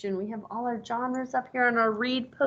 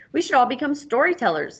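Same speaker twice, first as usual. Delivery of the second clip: lightly voiced eager cow, higher; cow suddenly; 4 semitones higher, 4 dB louder than usual. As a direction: blurt it out like a keen cow. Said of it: "said the cow suddenly".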